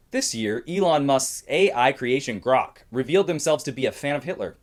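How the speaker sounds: measured satirical news read; comedy news anchor. Acted. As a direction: present jokes as news headlines.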